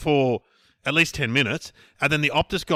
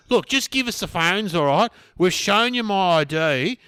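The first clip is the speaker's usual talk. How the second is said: pushy criminal demanding; 6 semitones higher, 6 dB louder, slower than usual. Retold or imitated.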